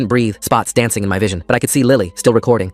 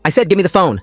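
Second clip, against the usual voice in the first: harsh, higher angry demand; 8 semitones higher than usual. Acted. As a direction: order it with rising menace. Jake demands the phone angrily.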